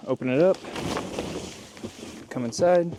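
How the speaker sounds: panting between words; winded, catching breath. Real, not acted. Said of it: "Sorry, I'm out of breath".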